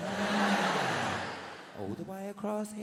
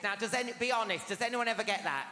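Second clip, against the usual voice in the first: normal talking voice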